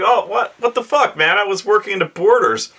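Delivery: high whiny protest; defensive late player. Retold or imitated. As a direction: whine the excuse, way up high.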